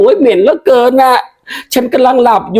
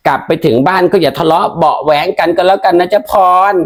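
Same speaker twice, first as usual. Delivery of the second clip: put-on much lower, sly old aunt; 4 semitones lower than usual. Aunt asking the wife for betel money, low sly voice. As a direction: wheedle like a cheeky aunt. Aunt asks payment, sends her home.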